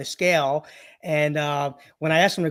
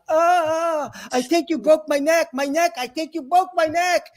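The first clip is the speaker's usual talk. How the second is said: much higher, louder hammed-up cry of pain; faked agony; 11 semitones higher, 4 dB louder than usual. Robin Williams pranking his chiropractor, fake agony. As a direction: pretend the neck just snapped. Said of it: "he's like".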